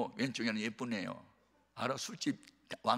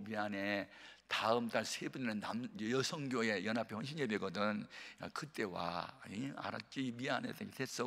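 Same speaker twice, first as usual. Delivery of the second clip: softer, lower, sheepish apology; apologetic; 3 semitones lower, 7 dB quieter than usual. Retold or imitated. Mentor sheepishly apologizing to Choi, softer. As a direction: mumble sorry, embarrassed. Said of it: "미안하게 됐대요".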